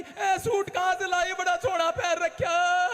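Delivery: slow, high sing-song mock wail; a mourner asking about a new suit mid-wail; fake wailing gossip. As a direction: gossip hidden inside a put-on lament. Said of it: "रो रही है, नौटंकी कर रही है".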